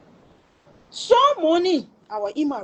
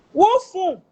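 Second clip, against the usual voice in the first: surprised question; 7 semitones higher, 6 dB louder than usual. Retold or imitated. Caller asking in disbelief.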